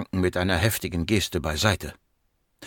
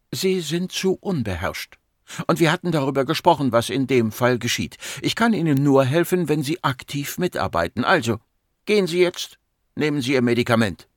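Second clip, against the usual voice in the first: higher, controlled woman doctor; stern psychiatrist; 4 semitones higher than usual. Acted. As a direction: reprimand the patient without raising volume. Voices the patient psychiatrist. (beherrscht, streng und sachlich)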